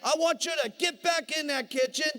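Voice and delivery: forceful comic tirade rising in pitch; emphatic, hammed-up telling-off; scolding coach. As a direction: order them about like a drill coach. Upline scolds wife on phone.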